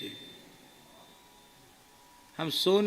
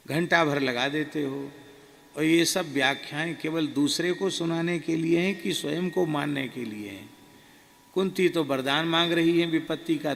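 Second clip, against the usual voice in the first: louder, teasing scolding from the guru; a hint of the guru's amused lecture; laughing rebuke; 5 dB louder than usual. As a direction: chide him with a smile. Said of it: "हंसकर बोले".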